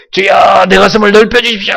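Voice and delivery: pleading prayer shouted up high; desperate prayer. Shown as a demonstration. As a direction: cry out to the Lord from a torn heart. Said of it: "하면서 찢으셔야 돼요".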